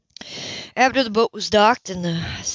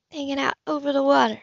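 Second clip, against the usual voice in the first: higher, skeptical repeat of Hanging out over the water, falling on water; doubtful echo; 5 semitones higher than usual. Acted. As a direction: echo his words, unconvinced.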